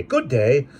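fierce, clipped farewell to a stranger; abrupt, fierce greeting. Acted. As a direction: bite it off fiercely. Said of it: "he said abruptly and fiercely".

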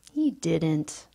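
contrary. Acted. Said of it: "I said contrarily".

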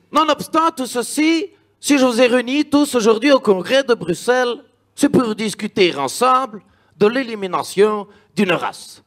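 put-on speechmaking dictator with a Belgian accent. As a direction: play a pompous Hitler with a Belgian accent. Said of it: "toi, Hitler belge?".

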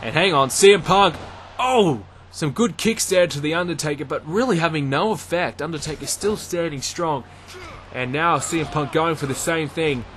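live ringside play-by-play, rising with the action; wrestling commentator. Acted. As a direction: call the match as it happens.

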